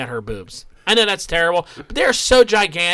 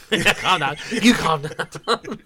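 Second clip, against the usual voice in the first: laughing mimicry; much slower than usual. Repeats, laughing.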